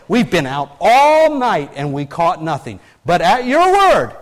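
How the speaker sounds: drawn-out, loud protest, rising at the end; acted protest. Worn-out fisherman answering Jesus, acted protest.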